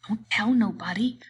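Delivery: put-on light childlike Lenny, pleased with the secret; Lenny to himself. A narrator's reading. Lenny hugging the secret to himself, lightly voiced. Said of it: "Lenny said to himself".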